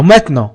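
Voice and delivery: "maintenant" reduced to "met-non"; street pronunciation. Shown as a demonstration. Teacher gives the other street form, street pronunciation. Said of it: "في الشارع يقولون".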